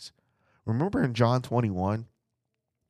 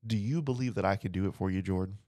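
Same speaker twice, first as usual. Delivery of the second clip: soft, quiet and close, as if to one listener; gentle personal question; 7 dB quieter, faster than usual. Acted. Preacher voicing Jesus asking one listener by name, hushed and tender. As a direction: ask it tenderly, almost under the breath.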